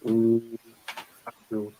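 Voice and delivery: soft, hushed attempt at a football manager; lightly voiced impression, trailing down quietly; Arsene Wenger. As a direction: murmur it as a loose impersonation. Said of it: "That's my Arsene Wenger impression".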